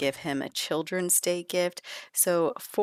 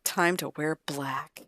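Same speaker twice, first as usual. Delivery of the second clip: super dramatic. Acted. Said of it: "He's being super dramatic".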